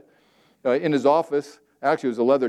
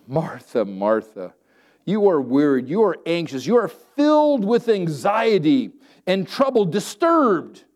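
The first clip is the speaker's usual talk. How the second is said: Jesus gently rebuking Martha; 5 semitones higher, 3 dB louder, slower than usual. Acted.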